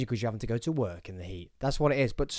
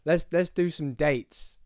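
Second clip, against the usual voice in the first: slow, drawn-out showman announcement; big-time host; 2 semitones higher, slower than usual. Pretend. To listeners, a second slow big-star announcement of dates. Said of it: "acting like I'm some sort of big time".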